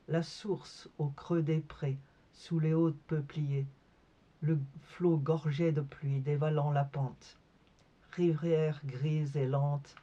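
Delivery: measured poem recitation, pausing after each image; poetry reading. Acted. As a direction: read each line as a separate picture. Reads her poem aloud. (lecture de poème, posée)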